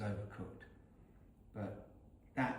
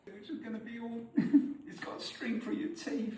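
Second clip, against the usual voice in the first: laughing; 10 semitones higher than usual. Real, not acted. Laughing while eating.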